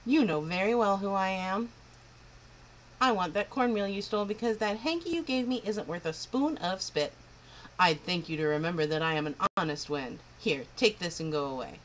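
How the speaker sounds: put-on proud, huffy old wind spirit; a touch of an offended old wind; old Wendy the north wind. North wind scolding the girl, a lightly voiced huffy old wind.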